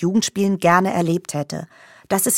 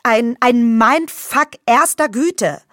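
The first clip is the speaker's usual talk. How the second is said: escalating comedy rant; 3 semitones higher, slower than usual. Acted.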